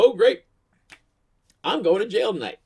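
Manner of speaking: high, loud burst of mock despair. Drunk driver pulled over by cops, loud mock despair. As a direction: wail it out high and loud, half joking. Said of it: "and I just go".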